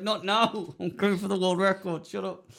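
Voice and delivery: dismissive dad. Retold or imitated. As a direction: wave the child away, distracted by the game. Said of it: "And he's like".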